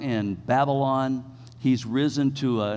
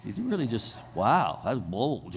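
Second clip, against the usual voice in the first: shocked congregation; 3 semitones lower, 5 dB quieter than usual. Retold or imitated. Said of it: "people are, like, going".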